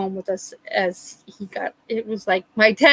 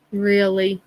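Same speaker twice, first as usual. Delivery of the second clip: dry deadpan. Retold or imitated. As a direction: let the second one land dry.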